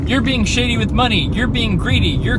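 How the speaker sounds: rehearsing an accusation for the ex at tomorrow's meeting; imagined confrontation. Pretend. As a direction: rehearse calling her out. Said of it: "to rage and be like".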